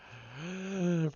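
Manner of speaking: drawn-out gasp. Real, not acted. Reader reaching the next card, long gasp. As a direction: draw in a long audible breath.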